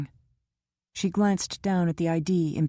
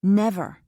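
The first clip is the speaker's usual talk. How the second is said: Never said louder with force; emphatic never; 4 semitones higher, 6 dB louder than usual. A narrator's reading. Kara insists to Jock she is never too busy, emphatic. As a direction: stamp down on Never. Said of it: "she repeated emphatically".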